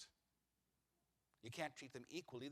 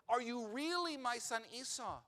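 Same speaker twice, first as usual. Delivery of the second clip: pathos; 8 semitones higher, 8 dB louder than usual. Acted. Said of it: "There's pathos".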